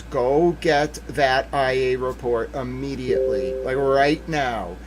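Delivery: measured retold directive, stretched at the end; imitated slow instruction. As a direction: spell out the order slowly. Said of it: "she's saying to the defense attorneys".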